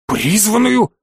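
sudden surprised outburst; startled near-yell. Acted. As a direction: blurt it out in shock. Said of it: "чуть ли не завопил Торен".

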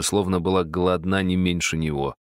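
plain reading voice

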